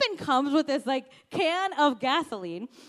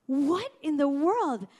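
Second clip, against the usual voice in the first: slow, drawn-out disbelief; retold bewilderment, each word stretched; bewildered; 2 semitones higher, slower than usual. Wife reacting to husband's unexpected kindness, slowly bewildered. Retells her own bewilderment.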